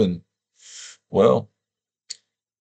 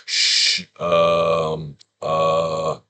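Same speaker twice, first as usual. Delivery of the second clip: 1 sounding out a word; 3 semitones lower, much slower than usual. Shown as a demonstration. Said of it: "So you go".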